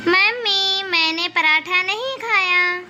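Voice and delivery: lightly voiced little daughter, drawn-out words; slow, sing-song child telling mummy; छोटी बेटी. छोटी बेटी माँ को बताती है. (हल्की बनावटी बच्ची जैसी, खिंची आवाज़)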